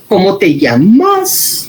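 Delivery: "¿Cómo te llamas?" read slowly with the question tune in the wrong place; misplaced question tune. Shown as a demonstration. Teacher imitates children reading a question, slow odd tune. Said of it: "Me sale rarísimo".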